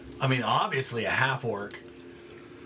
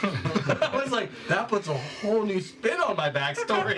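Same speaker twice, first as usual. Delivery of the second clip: laughing; 6 semitones higher than usual. Real, not acted. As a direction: laugh through the realization. Laughing at her own realization.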